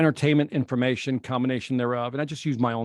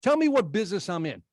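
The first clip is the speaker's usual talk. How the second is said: fast, higher, irritated retort; 5 semitones higher than usual. Retold or imitated. Victor losing patience with the guru: fast, irritated comeback. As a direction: snap back, fed up, a touch of anger. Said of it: "finally I get irritated".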